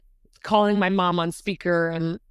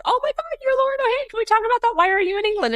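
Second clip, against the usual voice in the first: imitated excited fan; faster than usual. Imitating fan who recognized her.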